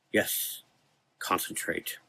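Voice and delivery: soft unvoiced whisper. A narrator's reading. Frank whispers to keep the doctor focused. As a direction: breathe it to him.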